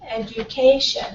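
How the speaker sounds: "education" with lighter stress on the first syllables, main stress on CA; secondary stress shown. Shown as a demonstration. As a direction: say "education" showing its two stress levels. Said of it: "a little bit less strong".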